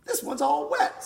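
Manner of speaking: put-on high, laughing kid's line. Narrator voicing a little boy, laughing and high. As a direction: giggle it out like a delighted little boy.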